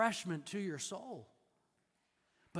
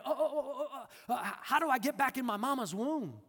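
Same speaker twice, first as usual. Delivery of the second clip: higher, laughing mock bewilderment; confused Nicodemus; 6 semitones higher, faster than usual. Nicodemus puzzles over being born again, mock confused. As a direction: play the baffled man, laughing at the idea. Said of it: "This is very much like Nicodemus".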